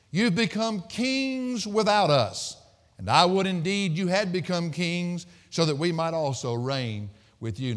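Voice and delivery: sting them with fake admiration; sarcastic. Paul mocking the Corinthians' pride, sarcastic. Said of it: "that's a very, uh, sarcastic verse".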